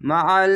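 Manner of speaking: heavy guttural ain; throaty ain. Shown as a demonstration. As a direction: press the throat on the ain of মাআল. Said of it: "গলা চিপে মোটা করে".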